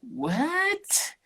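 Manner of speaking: breathless, high whispered what; stunned whisper at the recipes; whispered amazed what. Retold or imitated. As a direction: gasp it out in wonder. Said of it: "I was like".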